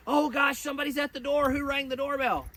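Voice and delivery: high, loud, flustered alarm at the door; anxious owner. Retold or imitated. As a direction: play the panicky owner hearing the bell. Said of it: "If you're anxious".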